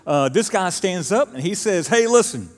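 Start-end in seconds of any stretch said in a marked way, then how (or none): 1.9-2.5 high and loud, grabbing the room; confronting call. Retold or imitated. Visiting teacher stands up to lecture the church, high loud call. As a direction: demand attention from the congregation.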